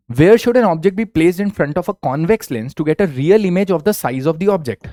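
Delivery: slow, deliberate quiz reading; question read-out. Acted. Teacher reads a quiz question to students, slow and deliberate. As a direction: spell each word out for the class.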